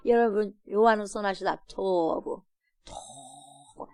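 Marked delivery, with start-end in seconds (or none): 2.8-3.9 very soft, low and slow 토부; hushed word. Shown as a demonstration. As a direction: breathe 토부 out slowly and softly. (토부를 아주 낮고 느리게)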